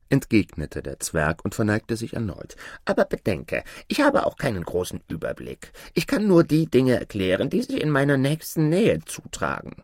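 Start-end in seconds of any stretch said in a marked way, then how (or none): 2.9-9.8 dwarf voice climbing high; cautioning dwarf spirit. Acted. Dwarf warns Aladin of limited knowledge, increasingly high voice. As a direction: explain limits in a rising little voice.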